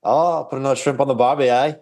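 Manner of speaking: playful stock-phrase Aussie impression; mock Australian accent. Guest joining the accent joke with the hosts, mock Australian accent. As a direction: ham up an Australian accent lightly. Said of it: "That's Australia".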